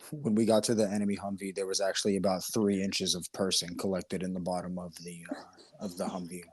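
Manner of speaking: mock-nonchalant veteran, even pitch; Nicholas Irving. Friend mimicking the ex-soldier at the enemy Humvee, nonchalant. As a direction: imitate someone calmly reporting something grisly. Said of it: "That's literally, like, how he talks".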